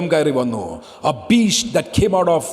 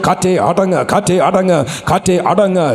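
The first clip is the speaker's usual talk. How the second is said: loud proclamation. Shown as a demonstration. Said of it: "ശബ്ദമുയർത്തി പറയട്ടെ".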